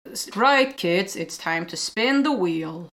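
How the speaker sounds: put-on slow, flat kids' TV host; deadpan like an awkward presenter; monotone presenter. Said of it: "talking in a monotone voice".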